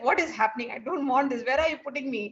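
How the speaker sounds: puzzled, protesting questions; perplexed. Acted. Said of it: "is like so perplexed".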